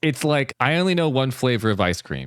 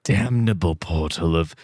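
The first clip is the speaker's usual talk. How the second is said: spooky voice. Acted. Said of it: "Do it with a voice".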